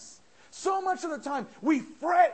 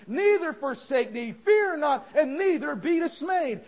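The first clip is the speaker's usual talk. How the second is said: louder, proclaiming King James verses; scripture read with force; 4 dB louder than usual. Acted. Preacher proclaims Moses's words, loud and solemn. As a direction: thunder the verse out.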